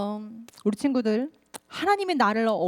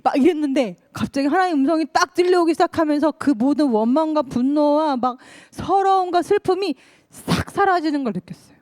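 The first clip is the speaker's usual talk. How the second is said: higher and louder, rising to the climax; excited; 5 semitones higher, 5 dB louder than usual. Real, not acted. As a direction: let it swell as the feelings vanish. Climax of testimony, voice rises.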